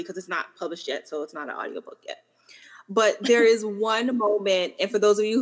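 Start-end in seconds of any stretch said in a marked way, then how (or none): 0.0-2.2 hushed aside, barely voiced; whispered aside to listeners. Real, not acted. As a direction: drop to a conspiratorial whisper. Aside about an unpublished book.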